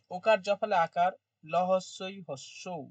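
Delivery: slow, syllable by syllable; staccato. Shown as a demonstration. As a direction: spell it out piece by piece. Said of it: "ওইখানে একটু কেটে কেটে বলছি".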